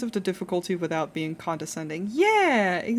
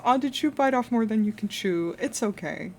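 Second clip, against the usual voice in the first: soft comforting tone; 2 semitones higher than usual. Retold or imitated. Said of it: "so endearing and sweet".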